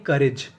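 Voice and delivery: करेज in two syllables, "ka-rej"; teacher showing करेज as "ka-REJ"; COURAGE read as "karej". Shown as a demonstration. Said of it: "इसे पढ़ते हैं".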